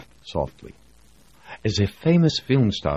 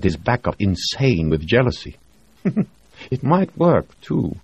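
higher voice, sly and amused, ending in a laugh; gossiping doctor; 4 semitones higher, 4 dB louder than usual. Acted. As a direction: relish the scandal. Reed gossips.

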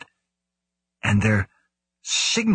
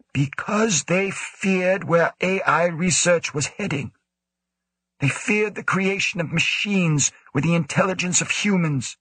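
put-on raised, lecturing old director voice; stern director; 9 semitones higher than usual. A narrator's reading. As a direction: lecture him in a higher, stern voice. Woe lectures Grant.

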